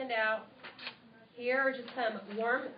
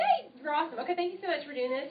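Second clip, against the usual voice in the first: high thrilled squeal, much louder; excited squeal; 6 semitones higher, 6 dB louder, faster than usual. Shown as a demonstration. Demo call thanking a friend for hosting, excited squeal. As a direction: burst out with delight at a yes. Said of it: "So, y'all get the idea".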